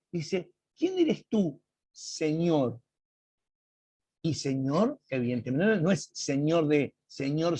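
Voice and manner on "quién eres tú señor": playing dumb. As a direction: ask as if you had no idea who it is. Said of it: "él se hace el tonto". (pregunta haciéndose el tonto, aguda y alargada)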